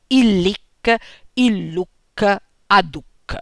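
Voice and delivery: il lic, il luc, aduc with the final syllable stressed; stress on last syllable. Shown as a demonstration. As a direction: land on LIC, LUC, DUC. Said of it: "in cui cade sull'ultima".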